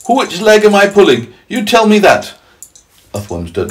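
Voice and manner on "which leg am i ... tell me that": high, loud centipede teasing; gleeful taunt. Acted. Centipede mocking the legless earthworm, high and gleeful. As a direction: jab the question out with glee. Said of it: "wriggling with glee".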